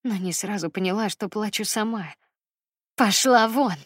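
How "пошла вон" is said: louder venomous "get out"; hissed through teeth. Acted. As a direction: push it through clenched teeth in fury. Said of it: "процедила мама".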